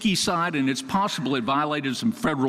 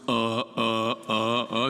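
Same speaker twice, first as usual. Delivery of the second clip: stuck record stammer; 3 semitones lower, slower than usual. Retold or imitated. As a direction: repeat uh, uh like a needle stuck in a groove. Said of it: "like that broken rec-, the stuck record needle".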